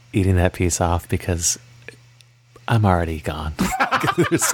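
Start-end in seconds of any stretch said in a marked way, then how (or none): 2.7-4.5 laughing. Real, not acted. Laughing through words.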